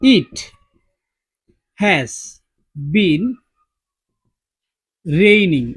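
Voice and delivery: it has been raining, each word said slowly, one at a time, loud and spaced apart; slow, loud example sentence. Shown as a demonstration. Teacher dictating an example sentence to students, slow and loud word by word. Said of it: "যেমন দেখো".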